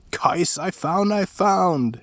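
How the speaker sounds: high, slow eager calls; excited call. A narrator's reading. Askeladd calling to his brothers, high drawn-out call. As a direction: call out the find with glee.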